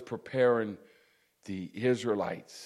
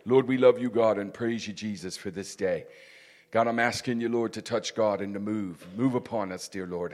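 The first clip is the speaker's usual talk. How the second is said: fervent pastor's prayer, louder on the petitions; closing prayer; 4 dB louder than usual. Acted. Pastor prays over the congregation as they stand, fervent prayer.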